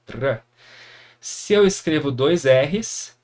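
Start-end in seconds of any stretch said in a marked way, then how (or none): 0.1-0.4 "R" as a tongue-tip tap sound; tapped R sound. Shown as a demonstration. Teacher isolating the other sound of R, tapped. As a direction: sound out "R" with the tongue, not the throat. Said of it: "ele tem esse outro som".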